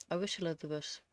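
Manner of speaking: "I wish Elizabeth" lisped through retainers. Real, not acted. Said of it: "that lisp".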